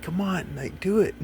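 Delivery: high-pitched teasing plea; high, wheedling "come on"; eager coaxing. Retold or imitated. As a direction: needle her playfully into doing it. Pleading with wife to do it.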